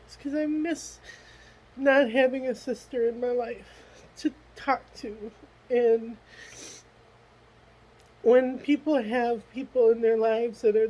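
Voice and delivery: holding back tears while confessing loneliness; tearful crying. Real, not acted. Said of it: "I'm crying on my video here".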